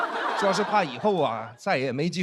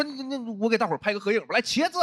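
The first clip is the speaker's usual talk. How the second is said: cheery photo call; 4 semitones higher than usual. Retold or imitated. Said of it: "我说".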